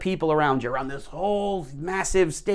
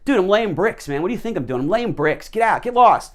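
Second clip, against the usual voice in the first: mock irritated yell, rising louder to the end; annoyed worker; 3 semitones higher, 3 dB louder than usual. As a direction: brush her off harder and harder. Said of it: "And he's like".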